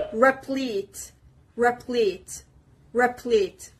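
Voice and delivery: "replete" stressed on the second syllable, from the P; separate, careful repeats of "replete", stress on the second syllable. Shown as a demonstration. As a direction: model "replete" carefully, leaning on "plete". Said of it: "The stress is on the P".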